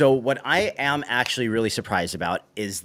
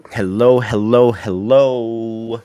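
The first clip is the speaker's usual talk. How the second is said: loud, drawn-out stream greeting; calling out hello; 8 dB louder, slower than usual. Real, not acted. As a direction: call out to see who's there. Greeting the audience as stream starts.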